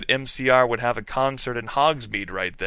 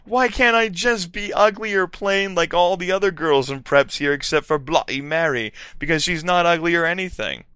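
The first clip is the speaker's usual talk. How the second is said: whiny; 6 semitones higher than usual. Acted. Heroine's whiny complaint.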